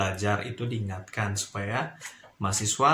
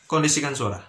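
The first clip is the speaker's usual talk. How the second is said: "Kondisikan suara" pressed firmly, a touch louder; firm emphasis; 4 dB louder than usual. Shown as a demonstration. Lecturer to noisy students, firm emphasis. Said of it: "nada yang agak penekanan".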